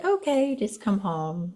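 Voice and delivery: mock giving in, high start dropping away; caving in. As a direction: give in with a drawn-out sigh of a line. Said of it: "cave to the anxiety and say".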